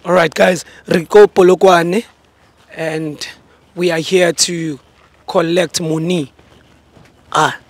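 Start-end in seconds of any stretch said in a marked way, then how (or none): 0.0-6.3 loud, drawn-out presenter delivery; show host intro. Acted. Host telling viewers the mission, slow, loud announcing. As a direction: stretch the words out for the audience.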